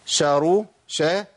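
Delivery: ش opening straight into a vowel in شا; voweled shin. Shown as a demonstration. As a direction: release the sh into an open aa, شارو. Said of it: "وأدي شين متحركة".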